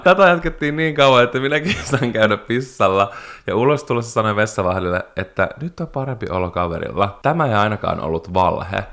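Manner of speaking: lively read-aloud of a listener's story. Acted. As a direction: read the tale out with relish. (kuulijan tarinan eläväinen ääneenluku)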